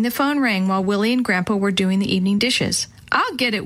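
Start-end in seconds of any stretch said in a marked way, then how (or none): none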